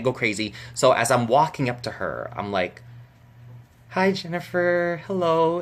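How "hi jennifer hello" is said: high, slow retold hello; careful, drawn-out fan greeting; calm greeting. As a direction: greet her in a high, held-in voice. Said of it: "I was really calm".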